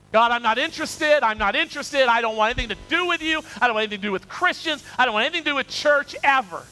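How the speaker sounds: put-on a proud young man turning God down; defiant refusal. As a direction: shove God away with each line. Preacher's past self rejecting God.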